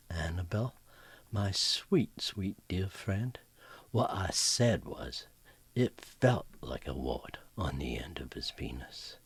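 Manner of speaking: slow, hushed, sugary calm; calm and sweet. Acted. Mary Lou calmly delivering the punchline to Annabelle, sweet hush. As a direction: deliver the zinger serenely. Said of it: "smiles calmly".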